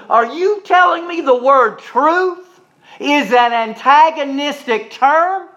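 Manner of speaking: slow, high-pitched incredulous question; retold incredulity. Interviewer challenges professor over the word truth, slowly incredulous.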